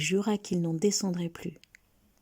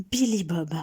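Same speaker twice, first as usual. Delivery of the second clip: calling out; 4 dB louder than usual. A narrator's reading. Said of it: "en criant son nom".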